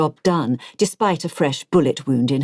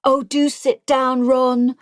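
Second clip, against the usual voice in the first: put-on raised, slow, exasperated old lady; weary posh lady; 8 semitones higher, slower than usual. Elizabeth hushes Ron, slow raised exasperation. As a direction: wave him down like a tired headmistress. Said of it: "the smartly dressed woman had said".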